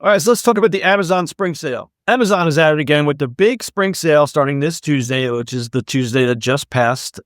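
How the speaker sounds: lively podcast news read; scripted segment read. Acted. Host presents the sale story to listeners, scripted read. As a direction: read the story out with upbeat emphasis.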